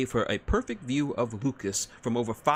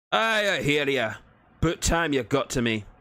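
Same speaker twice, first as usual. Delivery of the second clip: gruff Scottish-Irish dwarf; 5 semitones higher, 5 dB louder than usual. Acted. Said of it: "a tainted mix of Irish, Scottish".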